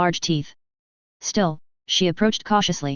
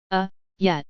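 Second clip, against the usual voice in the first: unsure. A narrator's reading. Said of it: "she said, unsure".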